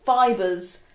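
a hint of a nerdy sitcom geek, slow; lightly put-on geeky drawl on all; Moss from The IT Crowd. Vlogger slips into a mild nerdy sitcom voice about secondhand fur. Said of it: "Why did I sound like Moss from the I T crowd then?".

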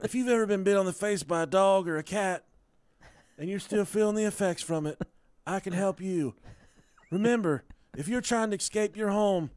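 fast, eager injury-lawyer ad read; lawyer commercial voice. Pretend. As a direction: pitch it like a cheesy TV lawyer. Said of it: "spot-on impression".

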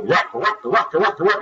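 mock grumbling in repeated nonsense syllables; lightly acted stream of grousing; imitated complaining. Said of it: "and just complaining".

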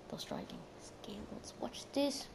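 whispered, slow, rising on skills. Shown as a demonstration. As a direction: hush it like a secret boast. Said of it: "We have those driving skills".

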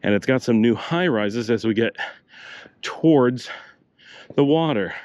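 out of breath from walking; slightly winded speech; breathing hard. Real, not acted. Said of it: "If I sound like I'm breathing hard".

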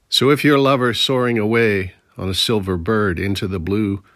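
lingering on the images of the railroads; poem reading. Acted. Poet reading his railroad blues poem to listeners, in an unhurried recital voice.

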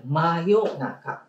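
真夜中 drawn out very slowly; slow emphasis. Shown as a demonstration. Teacher stressing the word for the children, drawn out slowly. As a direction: stretch 真夜中 out, syllable by syllable. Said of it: "ね、真夜中。".

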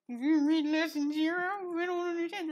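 high, incredulous student; baffled student voice. Retold or imitated. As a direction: play a confused beginner. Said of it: "someone like Kipsy comes in and is like".

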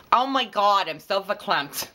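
high, loud Brooklyn exclamation; Brooklyn accent. Shown as a demonstration. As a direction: gush in a put-on Brooklyn accent. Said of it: "do a Brooklyn accent with that".

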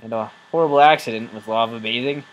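loud, earnest recovery testimony; a hint of a support group speaker; mock AA confession. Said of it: "at Alcoholics Anonymous".

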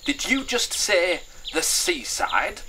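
high, loud, drawn-out question; shouted question. Acted. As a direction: call it out in eager disbelief. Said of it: "she shouted".

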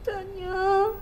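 tearful call to her aunt; weeping girl calls auntie; crying. Acted. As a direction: sob out the name.

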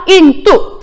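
인도 as Mandarin Yìndù, both syllables falling; two fourth tones. Shown as a demonstration. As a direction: drop sharply on each syllable of 인도. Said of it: "사성, 사성".

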